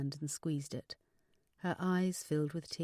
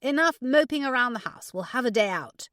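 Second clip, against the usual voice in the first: loud, high, bossy friend; rallying friend with raised voice; announcing; 7 semitones higher, 10 dB louder than usual. A narrator's reading. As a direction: announce the plan briskly and loudly. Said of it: "Gabby announced".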